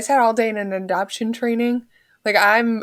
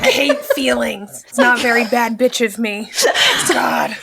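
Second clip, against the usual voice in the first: laugh-crying. Real, not acted. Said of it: "laugh cry".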